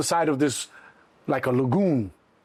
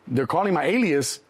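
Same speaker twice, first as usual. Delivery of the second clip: normal talking voice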